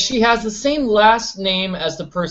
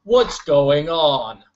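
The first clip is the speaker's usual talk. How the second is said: higher, louder showman voice; hammy host voice telling the audience; mock announcer; 4 semitones higher, 3 dB louder than usual.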